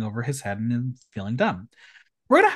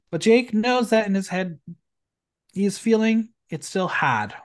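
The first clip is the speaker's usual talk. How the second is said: hammed-up Boston accent, r dropped in had; mock Boston accent; 4 semitones higher than usual. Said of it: "I'm mocking the accent".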